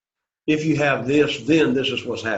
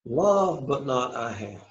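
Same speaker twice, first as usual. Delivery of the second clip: "Love" raised, then falling away softer; stress on love; 4 dB quieter, slower than usual. Shown as a demonstration. Teacher repeating the Greek order for the class, stress on "Love". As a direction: lift "Love" and let "but not I have" sink. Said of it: "the key thing is love here".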